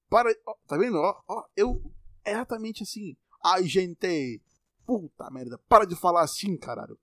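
high, loud exasperated outburst; exasperated rant. Real, not acted. Scolding viewers who fake a mineiro accent, loud and exasperated.

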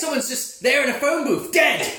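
laughing and shouting out. Real, not acted. Friend shouting gleefully through laughter about film deaths.

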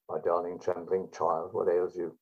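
poetry reading. Shown as a demonstration. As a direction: read it slowly and a bit hushed, like a recital. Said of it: "Well, read one".

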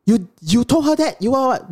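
high-pitched imitation of disbelief; incredulous, jumping high; shocked brother. Retold brother's shocked reply.

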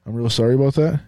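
mild mock Minnesotan accent. Shown as a demonstration. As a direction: apologize like a polite Minnesotan. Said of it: "what other Minnesotan words".

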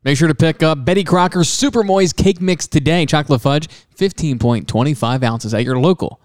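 punchy pitchman start, slowing at the end; improvised product plug; mock commercial read. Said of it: "Give 'em a commercial, please".

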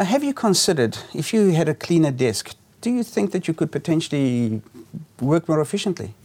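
gentle suggestion. Shown as a demonstration. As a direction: coax the client gently. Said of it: "put it in a way and say".

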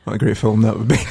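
loud delighted shout; laughing shout. Real, not acted. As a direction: call it out, cracking up.

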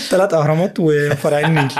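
joking through a laugh. Real, not acted. Jokes while laughing.

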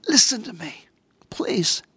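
preacher pulls the congregation close, whispering; whispered plea. Real, not acted. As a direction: lean in and hush the room.

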